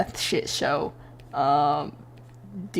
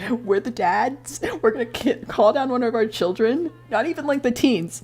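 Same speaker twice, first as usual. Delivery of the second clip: mock outraged dads; 5 semitones higher than usual. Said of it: "It's like".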